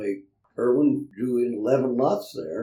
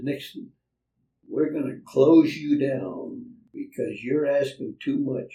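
retold loud scolding; 3 semitones higher, 4 dB louder, slower than usual. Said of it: "everybody could hear him in the restaurant".

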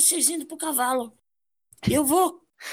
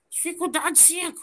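ordinary talk, nothing marked

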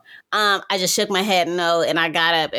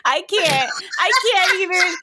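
mock crying; 12 semitones higher than usual. Retelling telling her boyfriend she's hurt, mock wail. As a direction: whine it out half laughing, half crying.

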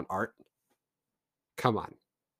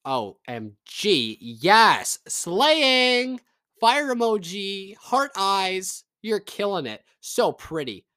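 high, gushing fangirl voice, much higher and louder; gushing fan; 9 semitones higher, 6 dB louder, much slower than usual. Retold or imitated. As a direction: squeal over the photo like an adoring fan. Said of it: "a singer's would be like".

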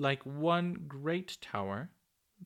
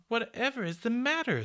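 much higher, rising; surprised; 11 semitones higher, 4 dB louder than usual. A narrator's reading. Peter to Popoff by the tower, surprised. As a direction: ask it startled. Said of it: "said Peter in surprise".

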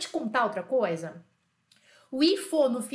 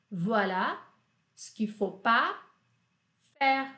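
chunked slowly; slower than usual. Shown as a demonstration. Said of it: "split into chunks".

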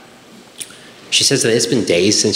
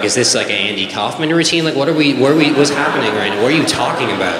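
mock exasperation, climbing higher mid-run; baffled son; 4 semitones higher, faster than usual. Son questioning his dad's joke, baffled and exasperated. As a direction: pile up questions in disbelief.

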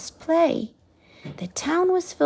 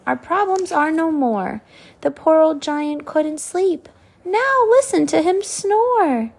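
high, bright-eyed and louder, settling at the end; excited girl; 5 semitones higher, 4 dB louder than usual. Acted. Sophie tells everyone, high excited gush. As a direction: gush with relief, then soften.

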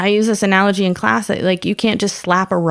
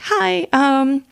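very high, squeaky, choked-up greeting; tearful fangirl; 11 semitones higher than usual. Retold or imitated. Comic retells meeting her idol, on the verge of crying. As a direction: imitate meeting an idol while holding back tears. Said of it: "I'm starting to cry".

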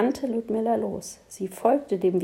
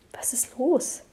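breathy whisper, no voice at all; whispered question; 5 semitones higher than usual. Acted. Lando whispers to Ludmilla while watching something, whispered. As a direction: whisper it so the creature won't hear. Lando asks, finger on lips.

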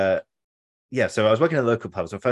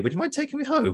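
laughing request. Retold or imitated. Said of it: "looked at her and went".

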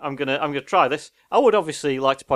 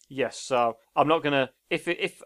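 ordinary talk

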